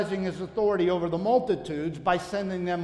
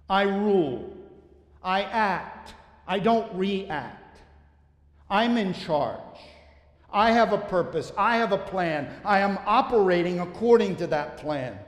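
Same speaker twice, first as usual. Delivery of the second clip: voicing Jesus' authority; 3 dB louder than usual. Preacher voicing Jesus declaring authority.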